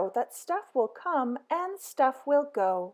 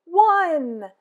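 one; 4 semitones higher, 9 dB louder than usual. A narrator's reading. Counting buttons left.

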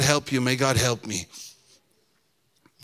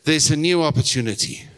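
raised, higher call for the congregation to repeat; rallying declaration; 5 semitones higher, 4 dB louder than usual. Real, not acted. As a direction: proclaim it for everyone to echo. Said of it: "Let's say".

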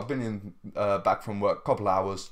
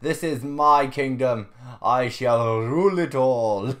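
louder, slow hammed-up ruler decree; mock villain boast; 7 dB louder than usual. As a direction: lightly play a gloating tyrant. Villain boast for game character.

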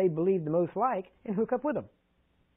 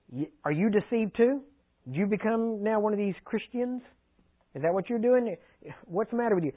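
Pharisees sneering at the officers, higher and scornful; 4 semitones higher than usual. Acted.

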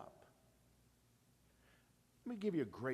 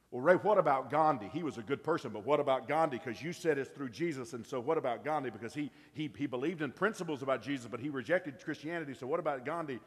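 challenging questioner; 6 dB louder than usual. Retold or imitated. Imagined challenger questions Ray.

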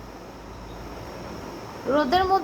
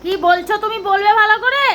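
stern urging; 4 semitones higher, 5 dB louder than usual. Real, not acted. Parent pushes child to read properly.

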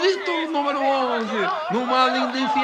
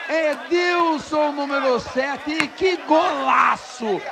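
excited; slower than usual. Real, not acted. Celebrating the goal.

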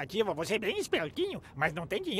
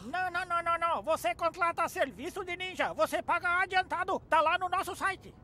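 put-on Japanese accent Portuguese; 6 semitones higher than usual. Vocês não têm sotaque japonês.

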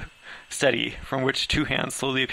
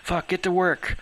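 sharp, higher, strained bark; barked order; 7 semitones higher, slower than usual. Acted. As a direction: snap the crew into action. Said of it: "Laura barked".

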